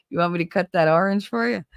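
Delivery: playful Jersey offer; New Jersey "ahr-inj"; Jersey accent. Shown as a demonstration. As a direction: demonstrate Jersey "orange" in a question. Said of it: "I say it orange".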